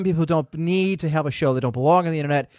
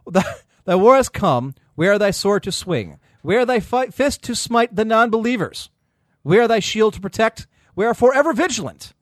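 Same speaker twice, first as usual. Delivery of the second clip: slow solemn prayer, hammed up; mock prayer; 6 semitones higher, 4 dB louder than usual. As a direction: intone like a battle priest. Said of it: "he gives us a prayer".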